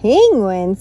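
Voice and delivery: loud questioning. Acted.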